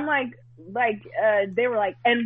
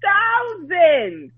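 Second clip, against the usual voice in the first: indignant rant; 3 semitones higher than usual. Retold or imitated. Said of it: "and I'm like".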